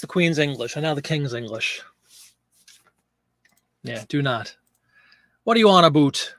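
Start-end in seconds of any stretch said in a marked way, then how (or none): 5.4-6.3 "about" said as "a-boot"; mock-Canadian, turn "about" into a double-O word; exaggerated Canadian vowel in "about"; Canadian "aboot". Shown as a demonstration. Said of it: "drop the U and make it a double O".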